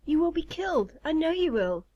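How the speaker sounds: high-pitched, tearful storybook plea; sobbing plea. A narrator's reading. Moth begging her friend not to fight, mock sobbing. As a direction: plead in distress, lightly acted. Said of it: "she sobbed".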